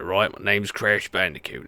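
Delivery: mock Australian accent; lightly imitated Aussie introduction; Crash Bandicoot. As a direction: put on a cartoon Australian voice. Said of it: "they give them Australian accents".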